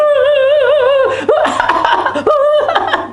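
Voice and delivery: loud, very high comic wail; imitation crying on a shoulder; mock bawling. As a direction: burst into hammed-up sobs, high and loud.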